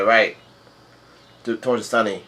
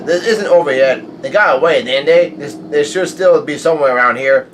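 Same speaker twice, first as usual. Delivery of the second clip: commanding; 3 semitones higher, 5 dB louder than usual. Retold or imitated. Commander orders the pirates hunted.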